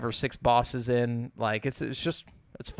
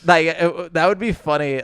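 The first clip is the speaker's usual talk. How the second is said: Australian accent; 4 semitones higher, 6 dB louder than usual. Shown as a demonstration. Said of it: "now I'm going back to Australian".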